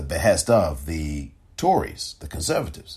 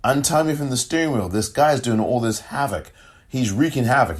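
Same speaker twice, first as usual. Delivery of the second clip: lightly acted plea, pitch lifted in places; retold begging; 4 semitones higher than usual. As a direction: retell it as a mildly urgent plea. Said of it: "begging him".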